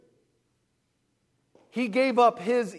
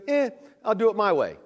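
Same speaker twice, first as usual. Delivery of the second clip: quick, offhand mock shrug-off; dismissive brush-off; faster than usual. Preacher voices Abraham brushing God off, dismissive. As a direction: toss it off, imitating someone brushing God off.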